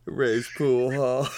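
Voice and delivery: slow words drawn out through laughter; laughing. Real, not acted. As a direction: savour the joke while cracking up. Still cracking up, repeating the joke.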